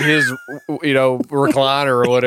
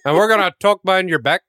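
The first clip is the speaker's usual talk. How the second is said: higher, badly faked Canadian accent; terrible Canadian accent; 4 semitones higher than usual. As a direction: do a bad Canadian accent with Irish leanings. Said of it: "Terrible Canadian version".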